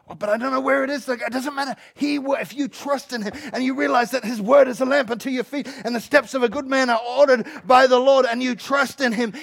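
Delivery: loud, emphatic sermon delivery; energetic preaching. Real, not acted. Preacher urging people to take a step, energetic preaching. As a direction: preach it with drive.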